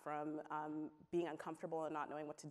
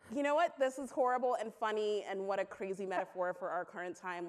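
laughing realization; 3 semitones higher, 5 dB louder than usual. Retold or imitated. Telling the audience her Titanic metaphor, laughing. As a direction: still laughing as the irony sinks in.

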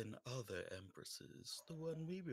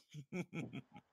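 a creepy slasher laugh; menacing chuckle; 4 semitones higher than usual. Acted. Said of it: "Without the menacing chuckle".

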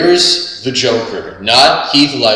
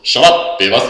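Beavis voice; faster than usual. Retold or imitated. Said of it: "Beavis and Butthead".

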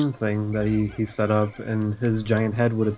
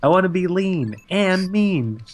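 Luigi voice; 6 semitones higher than usual. Retold or imitated. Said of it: "Luigi comes in and goes".

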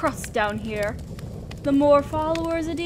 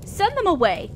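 1 irritated dismissal; 5 semitones higher than usual. Acted. Demon lord dismisses an unwanted visitor.

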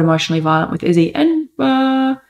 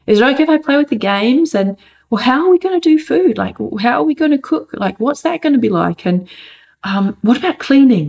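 lightly imitated child, higher pitched; eager child; 4 semitones higher than usual. Mother acting out her son's questions on moving inside, eager. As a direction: play a kid firing off keen questions, pitch lifted.

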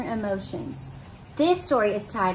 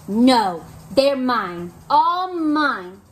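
grouchy ladybug; 5 dB louder, much slower than usual. Acted. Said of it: "said the grouchy ladybug".

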